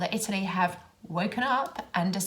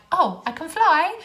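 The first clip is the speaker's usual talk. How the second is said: high, loud, slow sarcastic quip; mock the honker with exaggerated sarcasm; boyfriend's sarcasm; 8 semitones higher, 7 dB louder, slower than usual. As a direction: boyfriend mocking a honking driver, sarcastic. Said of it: "be like".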